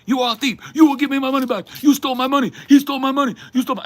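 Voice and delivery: put-on very high, loud screaming caricature of an Asian accent; hammed-up shrieking accusation in a put-on Asian accent; mock thick Asian accent. Barista imitating an angry customer, screaming in a thick Asian accent. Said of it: "with a very thick accent".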